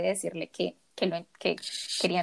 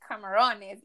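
put-on American accent Spanish; slower than usual. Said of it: "con acento gringo, pero malo".

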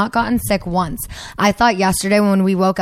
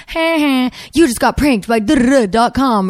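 higher, gleeful prank reveal; prank caller; 4 semitones higher, 3 dB louder than usual. Retold or imitated. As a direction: crow it like a prankster. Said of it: "it's like".

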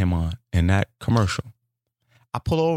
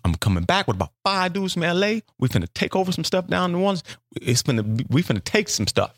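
scheming inner voice; 7 semitones higher than usual. Retold or imitated. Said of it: "So I'm thinking to myself".

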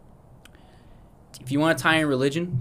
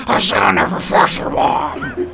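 laughing; 8 semitones higher, 9 dB louder, slower than usual. Retold or imitated. Quoting the dad, laughing.

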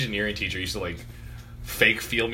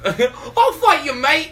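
high, drawn-out fighting talk; hammed-up high-pitched threat; mock challenger; 13 semitones higher, 4 dB louder, much slower than usual. Mimicking the kid picking fights.

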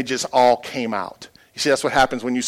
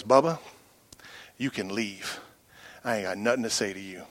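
quiet cold dismissal; 3 semitones lower, 9 dB quieter than usual. Retold or imitated. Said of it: "he looked at me, and he goes".

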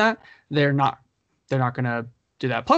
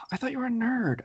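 whispered tease; 9 semitones higher, 5 dB quieter than usual. Real, not acted. Teasing after a sigh.

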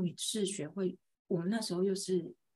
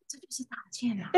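whispering; 4 semitones higher, 6 dB quieter than usual. Retold or imitated. Quiet aside to daughter.

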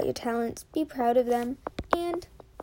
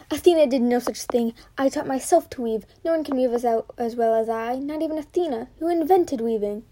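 angry; 4 dB louder than usual. Acted. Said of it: "This comment made Arachne angry".

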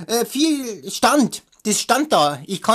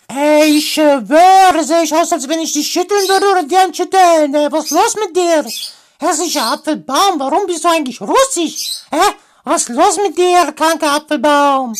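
street slang; 4 semitones higher, 8 dB louder than usual. Acted. Lazy girl as street-slang teen.

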